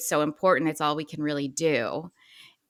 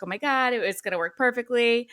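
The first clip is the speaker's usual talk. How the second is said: excited husband; 6 semitones higher than usual. Retold or imitated. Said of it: "He was like".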